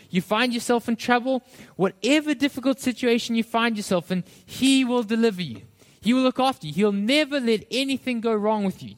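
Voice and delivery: lightly acted devil selling easy promises; tempting devil. Preacher voices the devil tempting Jesus, lightly acted persuasive pitch. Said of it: "He's tempting Jesus".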